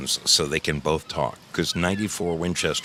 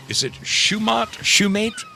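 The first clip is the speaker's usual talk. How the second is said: unsure high trial. Shown as a demonstration. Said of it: "I would say Schumate".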